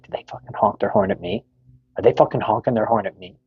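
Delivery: mock-offended, as if replaying a paranoid thought; suspicious indignation. Himself reacting to a honked horn, retold suspicious indignation.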